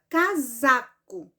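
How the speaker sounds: "casaco" with a firm stress on "sa"; stress on second syllable. Shown as a demonstration. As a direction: lean on the middle syllable of "casaco". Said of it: "o pedacinho mais forte que eu pronunciei".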